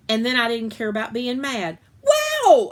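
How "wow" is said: high, loud gasp of wonder; amazed wow. A narrator's reading. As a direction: let the wow burst out in awe. Girl sees dream shoes.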